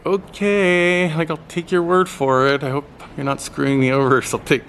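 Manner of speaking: half-trusting, wary answer; skeptical okay. Retold or imitated. Skeptical reply to bus helper.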